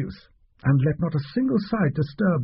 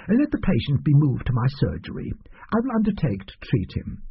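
lightly voiced, higher, fretful little man; fussy little doctor; 3 semitones higher than usual. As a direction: play the oily doctor pretending it's hard. Doctor continues.

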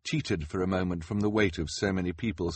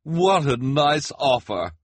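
high, slow, gushing exclamation; loud, delighted reporter voice; cried out; 7 semitones higher, 7 dB louder, slower than usual. Acted. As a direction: gush like an excited reporter. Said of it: "the reporter cried".

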